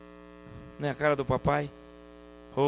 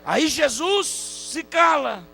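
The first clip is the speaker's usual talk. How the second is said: high, loud, drawn-out pulpit cry; stretched words ringing out over the congregation; fervent preaching; 13 semitones higher, 8 dB louder, much slower than usual. Acted. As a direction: proclaim it slowly and forcefully. Preaching at full force.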